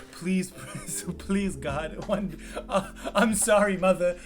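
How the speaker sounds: mock pleading outcast.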